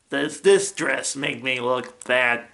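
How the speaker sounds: lightly voiced comic question; character voice. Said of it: "doing the voices and the lines".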